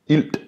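wrong demo with D. Shown as a demonstration. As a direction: sound the final D in "ild". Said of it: "If I were to pronounce the D".

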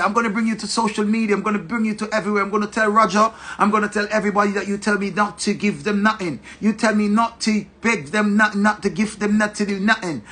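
imitated girlfriend threatening in a put-on Yankee accent; mock Yankee accent. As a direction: rattle off threats in mock American. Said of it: "she go down in the Yankee".

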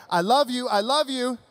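loud, high Elf line with the room; crowd callout. Pretend. Pastor gets the congregation to shout the Elf line loudly. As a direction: lead the crowd in a loud chant. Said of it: "Come on, say it with me".

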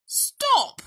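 grumpy bear outburst; grumbling bear. A narrator's reading. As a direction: cut in crossly as a sick bear. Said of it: "grumbled Bear".

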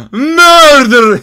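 loud, drawn-out cry. Real, not acted. Gamer cries out the order to murder. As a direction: belt the word out.

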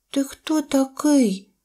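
high, slow little voice; baby mammoth. A narrator's reading. Baby mammoth questions an unfamiliar deer, high and slow. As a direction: ask slowly in a high child-creature voice. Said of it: "запитало його мамонтеня".

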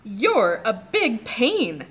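slow, lightly voiced growly tiger. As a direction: drag it out like a lazy tiger. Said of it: "the tiger said".

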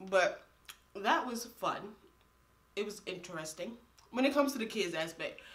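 nibbling food between words; talking while chewing. Real, not acted. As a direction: mouth partly full. Seen 0: Holds rib at lips, biting between words through 4.7s.

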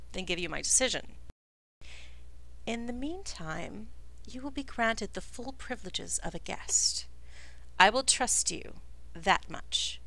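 lightly voiced stern ruler; measured chief. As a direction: speak as a guarded leader granting an audience. GM continues as the chief.

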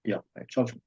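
usual speaking voice

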